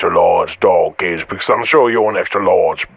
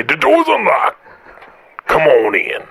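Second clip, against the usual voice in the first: high mock welcome; 7 semitones higher than usual. Voicing caller for pizza guy.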